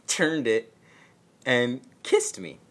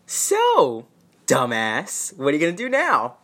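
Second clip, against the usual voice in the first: high, loud teasing jab; mocking friend; 4 semitones higher, 8 dB louder than usual. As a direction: needle her like a smug friend. Friend Veronica mocking her.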